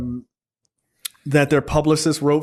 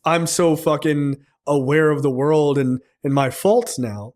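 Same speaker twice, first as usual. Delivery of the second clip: slow, mock-sincere self-aware tone; imitating a smooth fake apology; mock charming; slower than usual. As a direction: play the humble charmer, slowly. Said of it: "in this charming".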